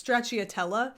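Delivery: Stracciatella said flat American, tray-chee-uh-TELL-uh; American accent. Shown as a demonstration. Trying the sweater's name without the Italian, American accent. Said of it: "call it with an American ex".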